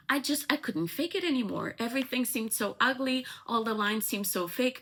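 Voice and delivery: mock distressed heroine; impassioned confession, retold. Actress confessing to her lover.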